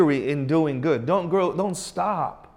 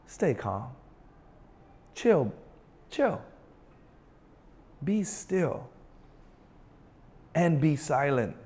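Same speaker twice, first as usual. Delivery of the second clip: softer, hushed voice of God; soft calm command; 5 dB quieter than usual. Acted. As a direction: settle them down, gently. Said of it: "he's saying".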